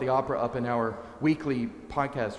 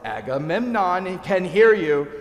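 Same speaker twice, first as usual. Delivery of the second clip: menacing reply; 6 semitones higher, 7 dB louder than usual. Retold or imitated. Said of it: "To which Electra replies".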